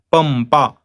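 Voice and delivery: Pampa with held m before pa; Pampa, clear m into p; labial anuswara. Shown as a demonstration. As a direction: hold the lips shut on the m in Pampa. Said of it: "This Anuswara becomes Ma".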